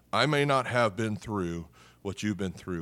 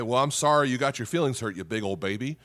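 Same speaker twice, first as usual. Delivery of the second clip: mock fake apology. Shown as a demonstration. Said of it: "You don't dare say".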